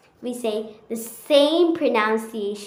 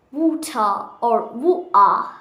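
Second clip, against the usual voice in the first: British accent. Shown as a demonstration. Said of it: "It's a little bit tricky".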